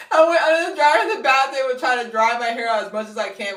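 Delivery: high, loud, comically worked-up; animated, panicked-sounding storytelling; frantic retelling. Retold or imitated. Reliving drying wet hair in the bathroom, frantic.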